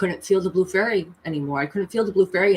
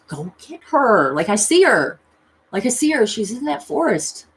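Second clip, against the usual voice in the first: urgent plea; 4 semitones higher, 4 dB louder than usual. Retold or imitated. Urges her guide to act.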